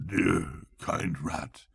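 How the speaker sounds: soft, slow, feeble murmur; barely breathing out the words. A narrator's reading. Toad feigning illness to Rat, soft slow murmur. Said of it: "murmured the Toad".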